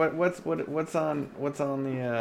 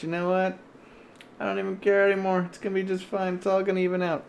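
raised, slightly pushed voice, half joking; odd put-on voice; 8 semitones higher, faster than usual. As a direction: talk in a silly higher announcer voice. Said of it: "I don't know why I'm talking like this".

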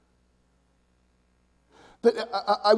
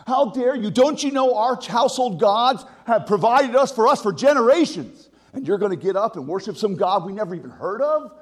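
angry; 2 semitones higher than usual. Acted. Family scolding new Christian.

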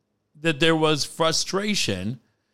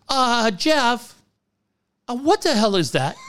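Ted's follow-up; 9 semitones higher than usual. Retold or imitated. Host Ted asks about bite.

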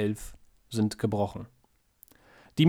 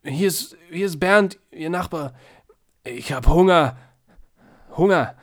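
loud, higher bawling plea; 5 semitones higher, 7 dB louder than usual. A narrator's reading. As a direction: bawl out your hunger. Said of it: "blärt er".

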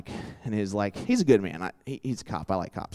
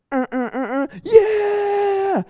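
whooping yell, much higher and louder; mock cheering; 3 dB louder, much slower than usual. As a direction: whoop like friends driving past. Friends cheering from passing car.

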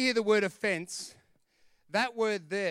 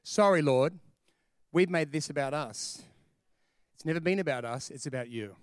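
lower-pitched, earnest prayer; 4 semitones lower than usual. Acted. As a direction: humbly hand it over to God. Models a prayer of repentance.

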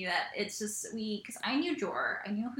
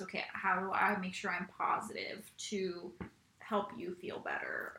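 whispered thought; 2 semitones lower, 7 dB quieter than usual. Retold or imitated. Voicing own inner thought.

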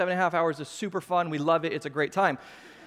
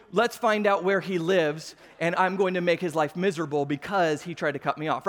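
angry, vengeful; 4 semitones lower than usual. Acted. Pastor showing his sour side after being cut off, angry. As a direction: act out a deliberate vow of revenge. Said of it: "angry. And it happened in an instant".

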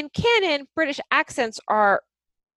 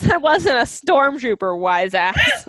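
mock-offended snap, louder; mock indignant retort, a bit louder; 3 semitones higher, 5 dB louder, slower than usual. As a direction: pretend offence with a louder cry. Mocking a stormtrooper retort.

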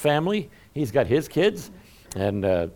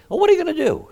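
high breathy aside whisper; 5 dB louder, faster than usual. Real, not acted. Preacher whispering a wry aside to the church, whisper. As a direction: whisper it like a shrug.

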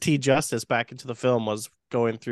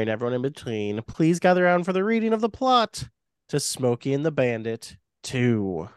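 horror host; 3 semitones higher than usual. Acted. Host reads the plot aloud.

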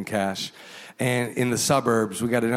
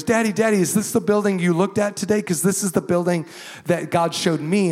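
a light imitation of an eager child calling out, higher; excited daughter; 5 semitones higher than usual. Pastor imitating his daughter running up after school, excited and high. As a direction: call Daddy like a thrilled kid.

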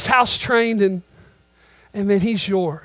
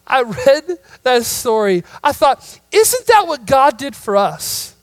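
rising fervor; 5 semitones higher, 5 dB louder than usual. Real, not acted. Turn to preaching, rising.

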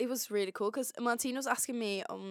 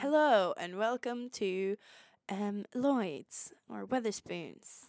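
waiter greeting; slower than usual. Pretend. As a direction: pretend waiter welcoming guests. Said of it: "let's say you're the, the waiter".

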